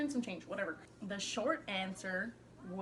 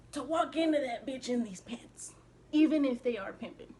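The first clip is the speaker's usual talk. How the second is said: excited; 4 semitones higher, 9 dB louder than usual. Real, not acted. Hyped about her pants.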